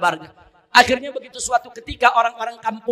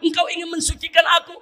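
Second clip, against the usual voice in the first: higher, half-shouted tearful plea; crying repentance; 5 semitones higher than usual. Acted. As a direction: weep out the confession to God. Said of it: "Begitu bangun dia nangis".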